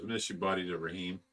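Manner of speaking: ordinary talk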